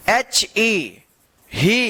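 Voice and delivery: ही said with a long "ee", not हे; right reading. Shown as a demonstration. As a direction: read ही, long ee. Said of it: "इसको हे मत पढ़िएगा".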